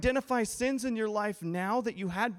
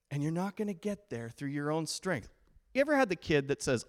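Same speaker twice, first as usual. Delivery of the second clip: usual speaking voice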